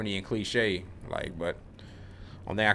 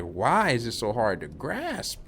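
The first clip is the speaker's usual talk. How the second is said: drawn out, exasperated at himself; dragged-out frustrated sigh of a question; slow frustrated self-question; slower than usual. Retold or imitated. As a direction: slowly ask why it's so hard to grasp. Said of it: "I get frustrated with myself".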